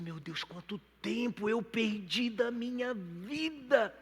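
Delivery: high, drawn-out lament; re-enacted cry to God; anguished regret. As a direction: stretch it out slowly in regret. Acts his anguished regret to God.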